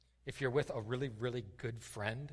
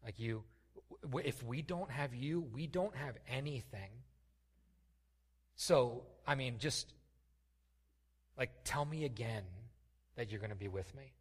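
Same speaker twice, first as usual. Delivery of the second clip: pleading with God. Retold or imitated. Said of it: "Moses is saying to God".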